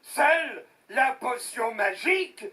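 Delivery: wailing, stop-and-start account; dramatic lament. Acted. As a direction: play up the heroic struggle. Beaten villager tells his inflated tale.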